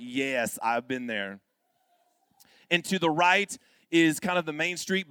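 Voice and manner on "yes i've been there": low, subdued agreement; low mock-solemn affirmation; knowing bystander. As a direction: imitate someone agreeing, pitched well down. Imitates audience member's knowing reply.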